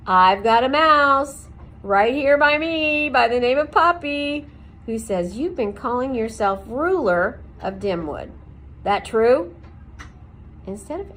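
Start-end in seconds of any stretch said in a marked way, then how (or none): 0.1-9.5 Aerith's voice. A narrator's reading. Aerith confronts Okax.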